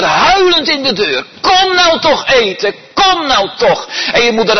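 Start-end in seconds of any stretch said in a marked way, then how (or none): 1.4-3.9 very high, loud tearful call; crying mother at the door calling her child, pitched very high; pleading mother. Retold or imitated. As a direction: beg the child to come home.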